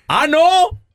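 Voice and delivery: high, taken-aback question; el feo. Acted. Poor man turned down by the devil, high puzzled voice. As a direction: squeak it in disbelief. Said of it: "grita el feo".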